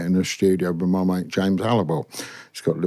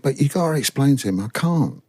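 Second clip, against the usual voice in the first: mock pleading; 5 semitones higher than usual. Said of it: "we're pleading with me".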